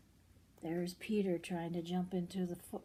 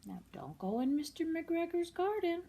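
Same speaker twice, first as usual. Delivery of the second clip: higher, pointed warning; mock warning; 9 semitones higher than usual. Parent repeating Mrs Rabbit's warning, higher. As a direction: wag a finger at the little listener.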